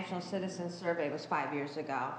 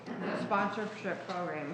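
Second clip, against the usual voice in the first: talking with a mouth full of cookie; chewing while talking. Real, not acted. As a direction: speak through a bite of cookie. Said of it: "excuse me, I'm eating a cookie".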